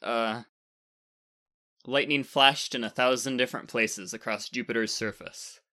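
plain reading voice

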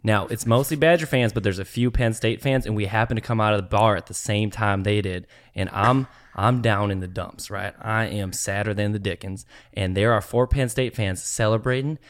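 put-on country accent. Storyteller stuck in the accent to friends, country accent. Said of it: "tell it in this accent".

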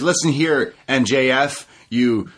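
lightly voiced DDP put-down; imitating DDP. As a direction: drag out the insults slowly. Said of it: "He says".

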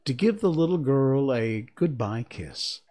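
measured, expressive storybook reading; story narration. A narrator's reading. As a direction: read the tale aloud, pausing between phrases. Reads the story aloud.

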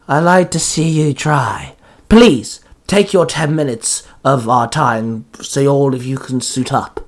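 lightly hissed villain taunt; taunting monster voice, punched in the middle then easing; Jack Frost. Acted. Monster dares the riders to suit up, hissing lightly. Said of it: "Jack Frost hissed".

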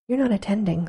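understated severe reproach; mildly severe. Acted. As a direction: scold her lightly for not listening. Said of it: "said the mouse to Alice severely".

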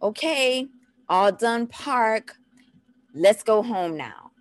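slow, rhythmic singsong instruction; drawn-out toddler-directed announcement; parent's park cue. Shown as a demonstration. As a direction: cheerily space it out for a toddler. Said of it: "when I go to the park, it's like".

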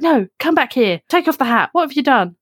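mum scolding. Retold or imitated. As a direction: order her back like a cross mum. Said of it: "my mum was like".

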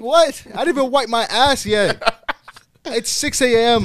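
loud, high comic protest; exasperated outburst. Retold or imitated. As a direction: shout it in laughing disbelief. Exasperated retelling of the chase.

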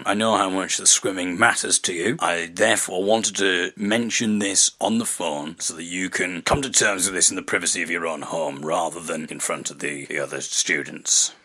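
low, soft, hesitant teacher; teacher delivering awkward news; Mister Smith impression. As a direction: break it gently, quiet and low. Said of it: "Mister Smith here".

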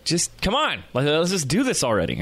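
a touch of restless frustration; frustrated impatience. Retold or imitated. Eager student bored with endless kite lessons, mildly frustrated. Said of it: "bored and frustrated".

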